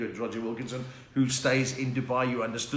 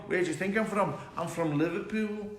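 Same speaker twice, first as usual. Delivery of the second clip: higher-pitched mock Scouse; hammed-up Liverpool accent; put-on Liverpool accent; 4 semitones higher than usual. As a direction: lay on the Scouse, stretching LIVERPOOL. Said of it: "I was talking like that".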